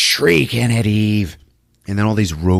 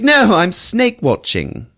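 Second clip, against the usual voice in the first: higher, slow vampy purr; sultry vamp; 11 semitones higher, 4 dB louder than usual. Retold or imitated. Lady Sylvia picking up the scout, lightly voiced vamp. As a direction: purr it like a seductress. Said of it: "It's like".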